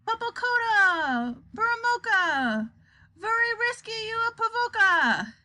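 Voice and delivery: high, drawn-out strange words; slow, steely incantation. A narrator's reading. Wonka addressing the world in strange words, slow and steely. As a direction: stretch each phrase, let the endings slide down. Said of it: "The words came more slowly, but there was a touch of steel in every syllable".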